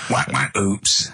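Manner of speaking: slow mock cartoon sound effects; comic sound effects. Shown as a demonstration. Comic auditions for radio, slow silly sound effects. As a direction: spell out a silly radio sting by mouth. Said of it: "I can do sound effects".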